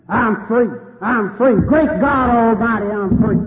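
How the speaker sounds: mock pulpit cry, building up; preacher impression. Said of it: "the greatest Baptist preacher".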